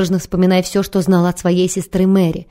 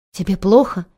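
gasped question. Acted. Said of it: "ахнула Бонни".

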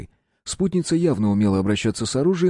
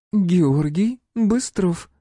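reading aloud slowly; 10 semitones higher, 3 dB louder, much slower than usual. A narrator's reading. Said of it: "прочитала она".

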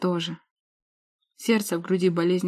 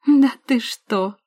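sneering; 5 semitones higher, 8 dB louder, much slower than usual. Acted. Sister sneers before laughing.

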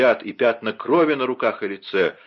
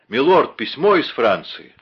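lightly raised call with news; mild announcing call; 4 semitones higher, 5 dB louder than usual. Acted. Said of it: "вошёл Патрик и крикнул". (слуга громко объявляет о письме)

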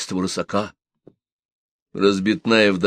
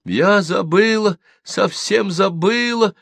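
frightened babble; 11 semitones higher, slower than usual. A narrator's reading. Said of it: "испуганно пролепетала Наденька".

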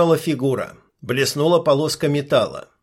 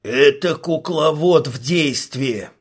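slow, understated frightened mumble; slower than usual. Acted. Healer mumbling in fear at the puppeteer. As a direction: breathe it out in dread. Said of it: "испуганно пробормотал знахарь".

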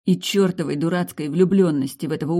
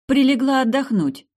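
readily; 9 semitones higher, 7 dB louder than usual. A narrator's reading. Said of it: "с готовностью откликнулась я".

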